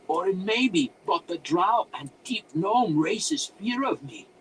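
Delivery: high, loud eccentric wizard voice; musing to himself. A narrator's reading. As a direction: think aloud in a hammed-up wizard voice. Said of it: "mused, more to himself than to the intruders".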